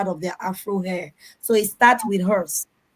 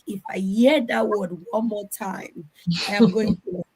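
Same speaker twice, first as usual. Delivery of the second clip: imitated simmering frustration; mock exasperation. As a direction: act out patience running out, word by word. Acts suppressed exasperation at repeated request.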